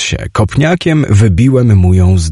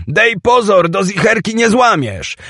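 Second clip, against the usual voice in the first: high-pitched, anxious call; urgent warning; 11 semitones higher than usual. Acted. Teoś warns Chimek hammering the safety pin, high and urgent. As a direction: warn him before he breaks it.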